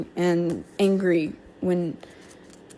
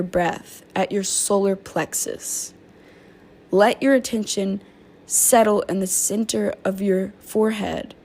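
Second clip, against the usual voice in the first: guided meditation. Acted. To her viewers, guiding them in a calm meditation. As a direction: ease listeners down into stillness.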